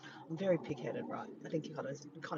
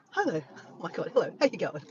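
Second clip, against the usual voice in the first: excited greeting; 7 dB louder than usual. Real, not acted. Greeting viewers who joined live.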